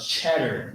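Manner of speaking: "cheddar" slow, leaning on the opening ch; emphasis on "cheddar". Shown as a demonstration. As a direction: stretch and press the CH that starts "cheddar". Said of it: "You gotta put the emphasis on it".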